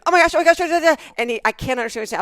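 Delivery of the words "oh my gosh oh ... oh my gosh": loud, high frantic oh my gosh; panicked repeating. Retold or imitated. Wife imitating husband with bug in ear, frantic. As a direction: blurt it out in a panic.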